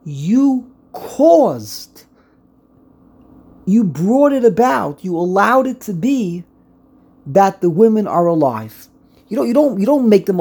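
insistent accusing tone; accusation. Shown as a demonstration. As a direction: press the blame home. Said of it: "an accusation".

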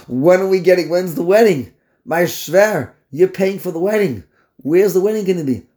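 a hint of a pushy groom; demanding son-in-law. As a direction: act out impatient questions to a father-in-law. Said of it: "He says to his father-in-law".

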